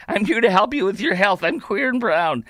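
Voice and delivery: slight hint of a self-important helper; mock helpful advisor. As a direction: offer help with put-on earnestness. Parodies advisor introducing himself.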